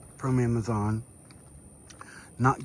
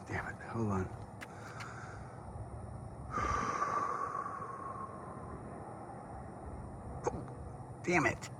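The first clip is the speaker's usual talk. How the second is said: hiccup-interrupted mutter; annoyed, hiccuping between words; 12 dB quieter than usual. Real, not acted. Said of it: "has made me have the hiccups".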